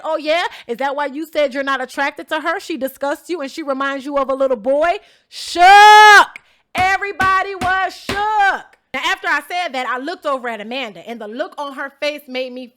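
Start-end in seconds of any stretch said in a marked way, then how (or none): 0.0-5.0 retold loud callout. 5.3-8.7 loud exclamation. Real, not acted. Dramatic reveal of reaction.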